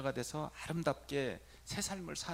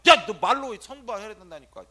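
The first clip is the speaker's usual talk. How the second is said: loud, higher insistence; exasperated shout; 7 semitones higher, 16 dB louder than usual. Retold or imitated. Priest loudly insisting the boy say it aloud. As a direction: push him hard to say it. Priest scolding silent youth.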